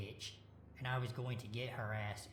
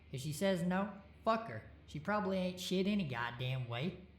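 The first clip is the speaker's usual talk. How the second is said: getting excited; 8 semitones higher, 5 dB louder than usual. A narrator's reading. Friend ranting to narrator, getting worked up and loud. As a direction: voice climbs higher and louder as he rants. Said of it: "getting excited by the sound of himself".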